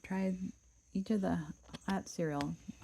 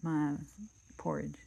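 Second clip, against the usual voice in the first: gruff papa bear. Acted. Papa Bear grumbling over his bowl, gruff voice. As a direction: growl it like a big bear. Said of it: "great rough, gruff voice".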